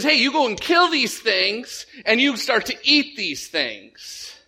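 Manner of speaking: high, slow, drawn-out order; God going NRA. Retold or imitated. God urging Peter to hunt, a gung-ho command. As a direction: give a gung-ho order to kill. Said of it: "God goes all N R A on him".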